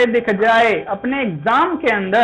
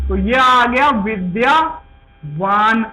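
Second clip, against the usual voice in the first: slow reveal; much slower than usual. Shown as a demonstration. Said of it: "मतूप की जगह पे क्या आएगा".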